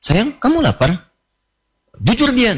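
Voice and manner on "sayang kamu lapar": innocent asking. Acted. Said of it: "polos kayak nanya".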